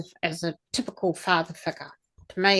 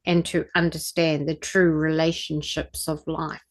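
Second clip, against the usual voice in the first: solemn activation. Acted. Leads an activation ritual.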